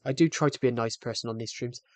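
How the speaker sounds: slightly winded; out of breath. Real, not acted. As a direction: talk while catching breath. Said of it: "I'm sorry if I sound out of breath".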